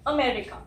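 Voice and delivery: 'अमेरिका' as a-ME-ri-ka, short 'ri'; correct pronunciation. Shown as a demonstration. Teacher gives learners the correct model, careful 'अमेरिका'. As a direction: give 'अमेरिका' all four syllables, stress 'me'. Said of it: "इसकी सही pronunciation है".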